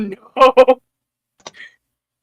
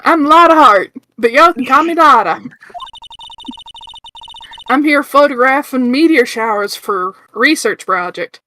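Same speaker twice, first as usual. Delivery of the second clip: put-on Southern accent. Lotta introduces herself to the group in a Southern accent. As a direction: make a Southern belle's hello. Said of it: "Southern American accent".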